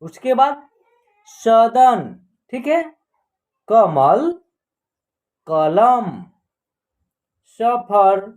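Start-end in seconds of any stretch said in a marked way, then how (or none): 1.3-2.0 deliberate, isolated model word; word-list reading. Shown as a demonstration. 3.7-8.3 deliberate, isolated model word; word-list reading. Shown as a demonstration.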